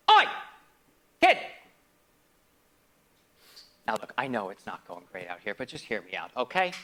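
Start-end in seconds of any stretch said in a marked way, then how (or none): 0.1-1.4 calling out. Acted.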